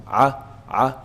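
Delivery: "A" squeezed from the middle of the throat; ain from mid-throat. Shown as a demonstration. Teacher letting students feel the vibration, throaty "A". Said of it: "middle of the throat should be moving".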